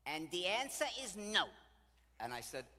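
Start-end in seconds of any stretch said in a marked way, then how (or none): 0.1-1.5 loud, high, final no; emphatic refusal. Retold or imitated. Widow telling tour guide she won't fly home, emphatic. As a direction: act out a defiant refusal.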